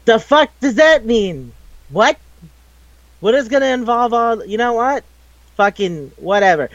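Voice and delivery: half-laughing disbelief, then giving up; baffled exasperation. Retold or imitated. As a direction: throw up your hands at nonsense. Exasperated retold reaction to nonsense.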